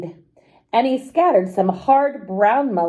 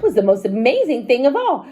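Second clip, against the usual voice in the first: quick, rising amazed exclamation; excited cry; 4 semitones higher, 3 dB louder than usual. Acted. Wife amazed at the box of money, excited cry. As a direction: burst out in amazement. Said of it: "she cried".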